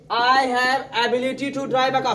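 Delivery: slow and clear, for students to copy; slow model sentence. Shown as a demonstration. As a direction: spell it out slowly as a model. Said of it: "चलो अब बोलो". (धीमे और साफ़ बोलो)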